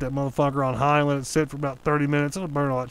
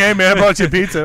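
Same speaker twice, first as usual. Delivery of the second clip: mock friendly delivery; 4 semitones higher, 10 dB louder than usual. Acts out delivering pizza to Toby.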